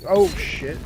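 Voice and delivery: sudden loud oh shit; startled curse. Real, not acted. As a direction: blurt it out in alarm. Grenade thrown at him.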